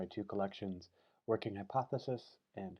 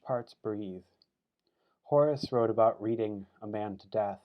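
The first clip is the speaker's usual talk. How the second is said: deliberate recital, slow on short phrases; poetry reading; 3 dB louder than usual. Acted. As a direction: set each image apart with a pause. Reads poem for his mother.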